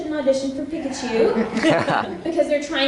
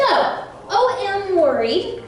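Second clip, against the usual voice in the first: worried line read; 6 semitones higher, much slower than usual. Shown as a demonstration. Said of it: "the way you do these lines".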